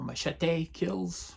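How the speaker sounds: Machete said "muh-shet-AY", soft sh and ay ending; alternative pronunciation. Shown as a demonstration. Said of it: "however you want to pronounce it".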